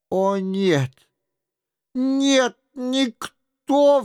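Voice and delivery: put-on high, rising cry of an old man; the old baron cries out, pitched high. A narrator's reading. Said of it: "вскричал старик". (старик вскрикивает высоко)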